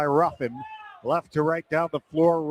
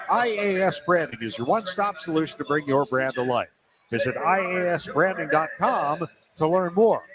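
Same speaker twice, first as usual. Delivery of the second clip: ad read. Acted. Live read sponsor ad.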